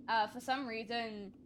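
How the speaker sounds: talking while chewing. Real, not acted. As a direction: mouth full of apple skin. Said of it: "sorry, I'm chewing".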